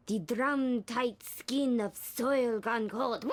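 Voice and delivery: slow, heavy, laid-on recitation; milk every word slowly; overdramatic reading. Acted.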